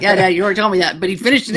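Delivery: loud laughing complaint. Retold or imitated. Daughter teasing her dad about his repeated stories, laughing. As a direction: laugh through the reminder. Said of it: "we were like".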